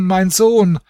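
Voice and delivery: hoch einsetzend, dann abfallend jammern; fallende Klage. A narrator's reading. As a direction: den Namen des Verlorenen sinken lassen. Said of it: "schrie und jammerte". (hohe, fallende Klage)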